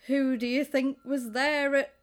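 lightly sarcastic retold boast; a bit sarcastic. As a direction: imitate a mildly sarcastic name-dropper. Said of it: "says it a little bit sarcastically".

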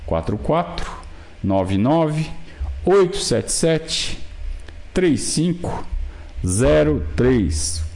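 slow digits with pauses between pairs; slow, over enunciating. Shown as a demonstration. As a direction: spell the number out slowly, clearly. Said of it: "Vou falar devagarzinho pra você anotar".

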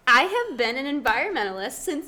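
loud, high and fired up; passionate. Real, not acted. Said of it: "She's really passionate about her corn phone".

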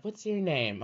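put-on high-pitched child question; imitated little kid. Little kid walking up asking questions, high mimicked voice. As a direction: put on a small kid's voice, high. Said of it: "Little kid walking up to you asking you questions".

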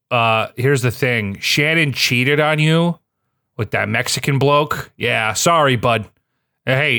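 imitating a bad-news caller in a Minnesota accent; lightly put-on Minnesota accent; weird Minnesota accent. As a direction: break it to them casually, Minnesota-style accent. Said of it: "in a weird accent".

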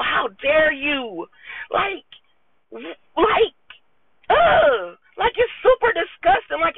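tearful accusation. Real, not acted. Confronting lying church leaders, near tears. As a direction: voice cracking as she accuses.

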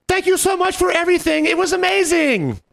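very high, sustained mock squeal; gushing thanks. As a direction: call out ecstatic thanks in falsetto. Couple calling thanks from passing car.

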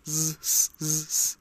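"z, z, z" as separate held sibilants; repeated sibilant sounds. Shown as a demonstration. Teacher demonstrating a different sound, "z, z" as held sibilants. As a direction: sound out each "z" as a buzz or hiss, not the letter name. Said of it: "a bit different".

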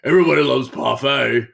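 high, loud hammed-up exclamation; put-on high voice bursting into laughter; imitated gleeful lady. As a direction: crow it like an over-delighted lady. Repeats lady's exclamation in her voice.

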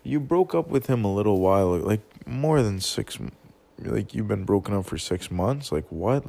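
loud, stunned disbelief; loud "wait, wait" in retold shock. Retelling his reaction to her six-month claim, loud stunned disbelief. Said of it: "I'm trying to think, like".

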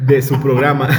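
laughing through the words; trying not to laugh; stifled giggles. Real, not acted. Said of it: "Nos estamos aguantando la risa".

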